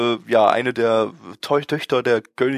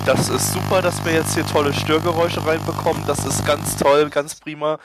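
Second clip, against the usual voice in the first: sarcastic; 3 semitones higher than usual. Acted. Sarcasm about noise.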